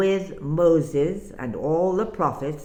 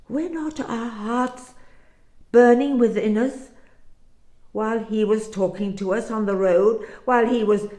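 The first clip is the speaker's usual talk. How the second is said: higher, rising awe, quickening; amazed wonder; 4 semitones higher than usual. Acted. Disciples marvel to each other, amazed. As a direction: realize it all at once, breathless wonder.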